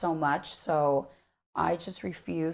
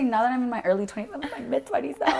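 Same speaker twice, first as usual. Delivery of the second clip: laughing correction; 5 semitones higher, 5 dB louder, faster than usual. Real, not acted.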